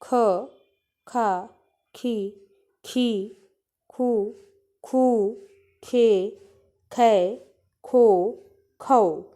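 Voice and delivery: each syllable from ख to खौ said slowly and firmly, one by one; a teacher modelling ख खा खी खू खे खो खौ for pupils to repeat; syllable drill. Shown as a demonstration. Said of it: "इस तरह से इसका उच्चारण होगा". (ख से खौ तक हर अक्षर साफ़ और ज़ोर से, बच्चों को दोहराने के लिए)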